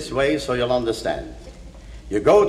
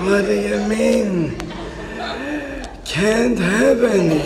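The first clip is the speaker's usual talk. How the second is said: surprised; 5 semitones higher than usual. Acted. Shocked dying father.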